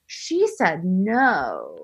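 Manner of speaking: very slow, low soap opera line; soap opera drama. Retold or imitated. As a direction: drag it out like a daytime soap. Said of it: "Young and Restless".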